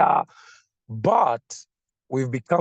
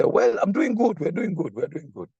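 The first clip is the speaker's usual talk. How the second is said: hesitant reply; 5 semitones higher than usual. Retold or imitated. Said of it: "then they'll say".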